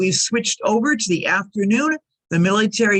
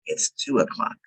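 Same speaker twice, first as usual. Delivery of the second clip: breathy whispered "two o'clock"; "it's two o'clock" in a hushed whisper; 6 dB quieter than usual. Shown as a demonstration. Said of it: "And when we say".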